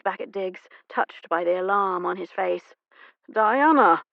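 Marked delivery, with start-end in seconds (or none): 3.3-4.0 loud call of a name. Acted. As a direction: call out across the crowd. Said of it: "he called out".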